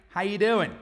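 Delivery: "How you doing" run together with no "are"; casual American greeting. Shown as a demonstration. Teacher showing how Americans greet, casual and punchy. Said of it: "And this is how you say it".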